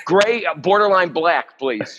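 high and slow, savouring each word; playing along, ordering near-black meat; mock butcher order. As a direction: stretch the order out like a gourmet request. Joins the butcher-counter bit.

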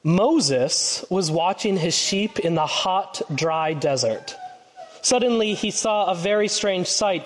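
put-on slow, lively storytelling for the kids; children's story reading. A narrator's reading. Pastor reading to the children up front, storytelling voice. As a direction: read it like a picture book to children.

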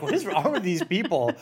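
baffled, laughing through it; laughing disbelief. Retold or imitated. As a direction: ask it while cracking up. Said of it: "looking at each other like".

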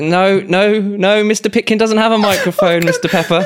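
hint of a care assistant humouring an old man; care-home worker. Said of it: "He's like".

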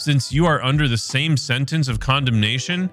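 measured, unhurried Gospel reading; scripture reading. Acted. Host reading Luke's Gospel to listeners, measured and reverent. Reads the Gospel passage aloud.

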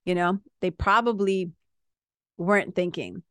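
calm, reassuring talk to an agitated partner; wife calming an agitated partner in the car, reassuring; soothing the partner. Retold or imitated. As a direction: talk him down gently. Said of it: "I'll say to him".

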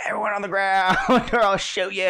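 understated mock command, breaking into laughter; lightly voiced shooter. Co-host retelling the shooter's threat, toned-down mock command. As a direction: give the order half-heartedly, amused. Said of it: "if a shooter came to your store".

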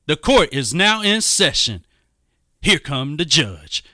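booming court crier call, high and loud; town crier. Pretend. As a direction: announce the judge like a bailiff. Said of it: "I'm gonna go Flip Wilson on everybody".

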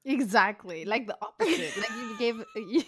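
laughing through the words; amused, giggling agreement; laughing as she agrees. Real, not acted. Laughing at Trump comparison.

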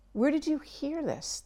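the wrong way, a shocked whisper; suppressed whisper. Shown as a demonstration. Parent reacting to child's news, whispered shock. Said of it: "You do not want to be saying".

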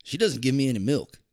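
high, loud disbelieving questions; incredulous uncle. Retold or imitated. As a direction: imitate the farmer uncle baffled by her pick. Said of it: "He's like".

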